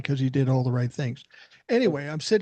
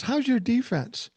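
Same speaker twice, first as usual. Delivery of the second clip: teasing Ali; 8 semitones higher, slower than usual. Retold or imitated. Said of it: "He goes".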